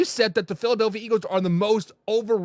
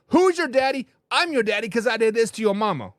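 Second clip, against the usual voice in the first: gloating taunt; 3 semitones higher than usual. Retold or imitated. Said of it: "They said".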